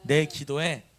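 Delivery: loud lead for the congregation; repeat-after-me call. Shown as a demonstration. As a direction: call it out to be echoed. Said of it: "한번 따라서". (따라 하도록 크게 선창)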